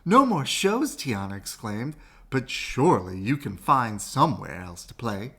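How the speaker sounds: a shaky attempt at a Southern accent; bad Southern accent. Tiana begging her cousin to keep playing, in a bad Southern accent. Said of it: "I apologize for my bad Southern accent".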